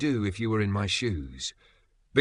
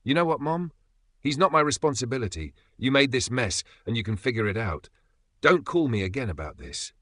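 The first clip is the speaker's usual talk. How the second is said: snapping back; 3 semitones higher than usual. Retold or imitated. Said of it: "And I just snapped".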